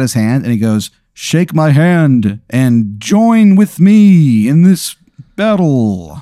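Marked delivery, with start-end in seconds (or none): 1.1-6.2 slow, weighty invitation to battle; solemn spirit's offer. Acted. Spirit holds out his hand to Aaron, slow and solemn. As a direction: draw out each word like a sacred oath.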